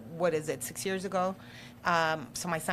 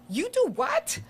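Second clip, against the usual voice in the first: high squeaky disbelief; shocked parents; 3 dB louder, slower than usual. Retold or imitated. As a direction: imitate the stunned parents, jumping way up. Parents shocked by her job.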